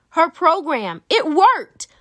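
thrilled reveal; excited cheer. A narrator's reading. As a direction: announce the win with joy. Triumphant climax of story.

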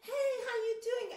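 high, quick hello in passing; imitated breezy street greeting. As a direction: toss off a greeting without stopping. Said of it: "they say that while they're passing by".

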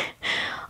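short, hushed breath of laughter; soft laugh. Acted. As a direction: let out a small, quiet laugh. Amused after naming electricity.

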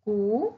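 cu said as Spanish "koo"; Spanish letter name. Shown as a demonstration. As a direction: say cu like "koo", held and lifted. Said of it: "official name in Spanish is cu".

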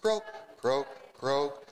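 playful frog croaks. Acted. Teacher croaking like a frog for the kids.

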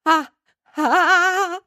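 high, loud panicked shriek. A narrator's reading. Gertie discovering what she lies on, panicked shriek. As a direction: shriek in sudden terror. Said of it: "begann Gertie zu kreischen".

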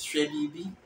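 "Hwebibi" as Twi says it, rising at the end; Twi accent. Shown as a demonstration. Teacher answering the Fanti take, Twi accent. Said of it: "Then Twi is".

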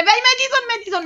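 high, slow, stretched shout of encouragement; urgent rallying cry; frantic urging. Real, not acted. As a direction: push the character on, voice leaping up. Player urges character in danger.

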